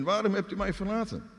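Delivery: high-pitched cry of desolation. Acted. Jesus cries out at the start, desolate. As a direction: call it out high, demanding why. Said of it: "Hij schreeuwt in het begin".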